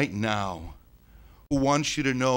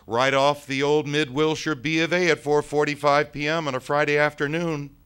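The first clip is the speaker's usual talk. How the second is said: high, loud account building to a peak; excited retelling; 9 semitones higher, 11 dB louder than usual. Acted. Ghost proudly tells the boy how he jumped, excited retelling. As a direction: relive it at full volume, climbing in pitch.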